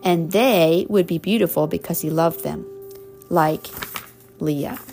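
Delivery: warm storybook reading; reading to children. Acted. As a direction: read it like a bedtime story. Reading picture book to child.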